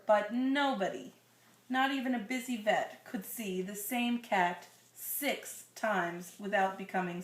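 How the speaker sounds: put-on slow, gentle read-aloud to a child; storybook reading voice; story narration. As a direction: read it like a bedtime picture book. Reading picture book to child.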